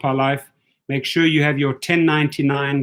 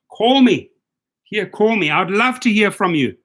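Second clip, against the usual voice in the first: calling out; 3 semitones higher than usual. Real, not acted. Calling out to laid-off staff.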